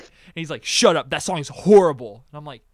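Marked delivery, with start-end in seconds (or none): 0.6-2.2 loud, emphatic retold put-down; mock annoyed tirade. Friend trashing the hummed song mid-game, mock annoyed tirade.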